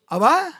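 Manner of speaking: high, loud, very slow stretched BERSYUKUR; drawn-out proclamation. Acted. Preacher answering his own question with a long, loud Bersyukur.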